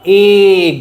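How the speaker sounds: এগ said slowly with a clear open e sound; এগ pronounced carefully for students; pronunciation demo. Shown as a demonstration. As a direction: stretch out এগ so its opening vowel is heard. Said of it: "মনে করো যেন এরকম প্রোনাউন".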